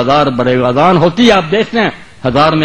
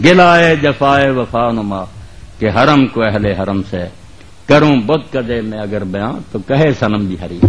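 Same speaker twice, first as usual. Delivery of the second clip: poetry recitation; 5 semitones lower than usual. Acted. Preacher reciting Urdu verse to the congregation, measured declamation. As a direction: recite it line by line, letting vowels stretch.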